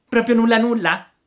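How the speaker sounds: loud high pleading puppet. Acted. Pinocchio chiede a Geppetto se non c'è altro, voce acuta. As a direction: beg in disbelief.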